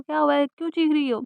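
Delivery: loud, worried asking what happened; alarmed loud question. A narrator's reading. Husband rushing in alarmed.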